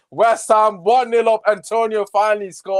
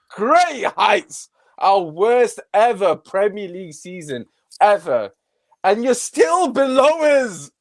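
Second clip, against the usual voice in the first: gloating taunt; 4 semitones higher than usual. Real, not acted. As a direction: lean on every word to rub their noses in it. Taunting rival fans directly.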